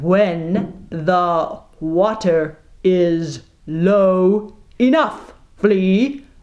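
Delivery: very slow, condescending, talking down. Little Jack answers Flea's objection, speaking slowly as if to a simpleton. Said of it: "Little Jack spoke slowly, as if to a mentally deficient person".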